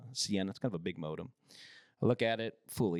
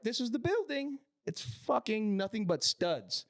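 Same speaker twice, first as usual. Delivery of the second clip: mock customer voice; 9 semitones higher than usual. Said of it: "They're like".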